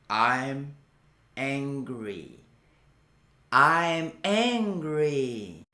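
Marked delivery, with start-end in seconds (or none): 3.5-5.6 slow drill phrase. Shown as a demonstration. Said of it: "我很生气".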